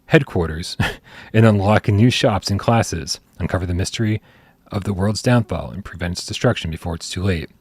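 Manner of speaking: scripted game-news read; announcement read. Real, not acted. Host reads listeners a game announcement, scripted news read. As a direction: read the game summary out in measured phrases.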